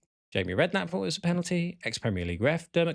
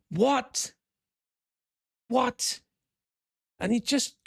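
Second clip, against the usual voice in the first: disbelief; 8 semitones higher, much slower than usual. Real, not acted. Disbelief at the panel's verdict.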